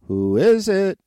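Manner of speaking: high, loud little pig; squeaky piggy voice. Acted. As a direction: squeal it like a startled piglet. Third piggy answers.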